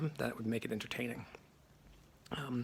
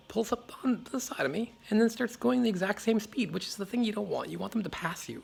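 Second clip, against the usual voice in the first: loud, high-pitched exasperated storytelling; worked-up retelling; 9 semitones higher, 6 dB louder than usual. Retold or imitated. Cyclist recounts a car pacing him, worked-up and exasperated. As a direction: raise pitch and volume as the annoyance builds.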